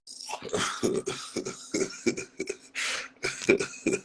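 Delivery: long wheezing laugh; real laughing fit. Real, not acted. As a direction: crack up helplessly, mostly breath. Cracks up at own fight story.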